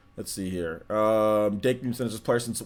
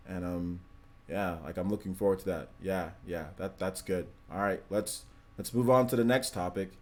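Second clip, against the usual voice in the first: mock dull early-video voice; 2 semitones lower, 3 dB quieter than usual. Shown as a demonstration. Imitating his old dull camera self. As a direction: drone through it like he used to. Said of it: "demo of dull early video".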